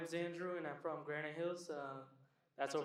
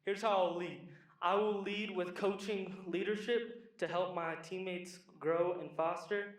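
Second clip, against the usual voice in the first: steady, deliberate, slower and sure; with conviction; 3 dB louder, slower than usual. Shown as a demonstration. Wrestler repeating his leadership statement with slow conviction. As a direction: say it like you believe it. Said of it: "you gotta say it with conviction".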